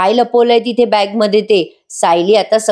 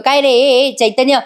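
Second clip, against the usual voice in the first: mild mock yell, pitch slightly raised; retold scolding, no real shout; 3 semitones higher than usual. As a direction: imitate a man telling off his friend. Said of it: "Arjun त्याला ओरडतो आणि म्हणतो".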